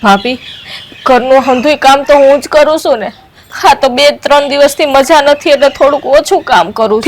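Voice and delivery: loud, defensive shouting; aggrieved loud retort; loud protest. Acted. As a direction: shout back in self-defence. Shouting back at sister-in-law.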